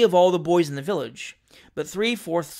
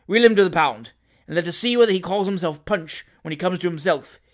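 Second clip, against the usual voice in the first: imperious order; 3 dB louder than usual. Acted. Captain orders servant.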